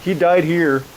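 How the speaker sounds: loud, high, drawn-out "uh-uh, no"; mock refusal. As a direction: play an offended city refusing outright. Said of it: "Ravenna was like".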